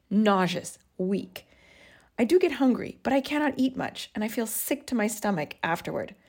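put-on reading an old diary entry with feeling; a touch dramatic reading of her own old journal; journal read aloud.

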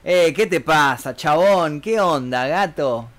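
drawling Buenos Aires street greeting; slow it into porteño slang; marked porteño accent. Shown as a demonstration. Streamer demonstrating how Buenos Aires talks, marked porteño accent. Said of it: "tiene más marcado el acento este".

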